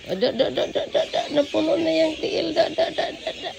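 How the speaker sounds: babbling through giggles; giggly nonsense syllables between laughs; laughing. Real, not acted. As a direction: laugh while cooing at the animal. Laughing while cooing to animal.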